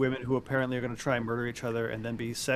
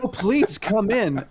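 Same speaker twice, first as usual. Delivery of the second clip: lightly acted eager invitation, higher and louder; slow, raised mock welcome; welcoming lady; 7 semitones higher, 6 dB louder, much slower than usual. Lady at the door to missionary, lightly mocked welcome.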